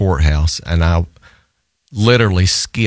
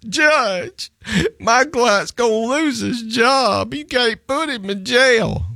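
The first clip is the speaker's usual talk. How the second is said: high, whiny plea to the judge; pleading lawyer; slower than usual. Retold or imitated. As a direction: beg the judge in a much higher put-on voice. Opposing counsel pleads with judge.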